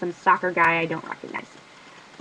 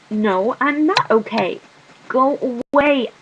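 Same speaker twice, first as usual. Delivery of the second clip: tearful refusal; 4 semitones higher, 5 dB louder, slower than usual. Acted. Crying girl answers through door.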